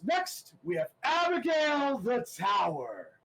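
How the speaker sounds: high, loud booming intro; announcer shout. Acted. Announcer bellowing the next fighter to the arena. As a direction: shout it over the crowd. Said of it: "the announcer turns to you guys and goes".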